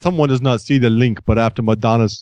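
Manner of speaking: bad Russian accent drifting German; bad Schwarzenegger Russian accent. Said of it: "I'm suddenly doing, like, Russian German".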